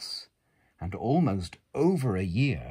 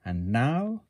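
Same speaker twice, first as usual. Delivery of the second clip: cried out; 3 semitones higher, 4 dB louder than usual. Acted. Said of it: "cried Max".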